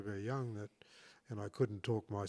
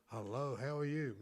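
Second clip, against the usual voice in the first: careful slow greeting; measured, slightly raised hello; slow, enunciated self-talk; 3 semitones higher than usual. Retold or imitated. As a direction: enunciate as if practising aloud. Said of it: "talking to myself".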